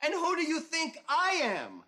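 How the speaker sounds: dramatic movie-line parody; Chinatown quote. Retold or imitated. The speaker quoting Chinatown at Carl, hammed up. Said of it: "That's Faye Dunaway in Chinatown".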